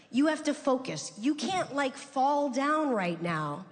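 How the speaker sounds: mildly exasperated talking-to, pitch lifted; firm scolding. Retold or imitated. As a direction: lay down the law to a falling-apart parent. Acted scolding of her distraught dad.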